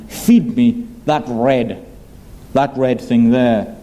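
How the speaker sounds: slow, low, greedy demand, a hint of a coarse man; coarse carnal man. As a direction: drag it out low like a greedy glutton. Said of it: "the language of a coarse, carnal man".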